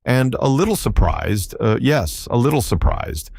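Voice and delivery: sly villain teasing his bound captive; mocking.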